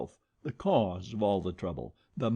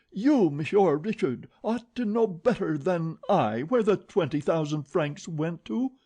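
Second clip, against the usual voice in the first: loud, high accusation; accusing yelp; 7 semitones higher, 4 dB louder than usual. A narrator's reading. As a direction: point the finger with your voice. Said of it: "she yelped".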